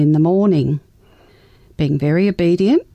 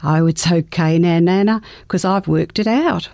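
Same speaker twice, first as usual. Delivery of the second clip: matter-of-fact. Retold or imitated. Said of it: "in a very matter-of-fact voice".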